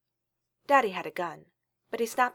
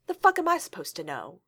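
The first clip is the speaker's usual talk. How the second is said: angry; 5 dB louder than usual. Acted. Kidnapper snaps at child.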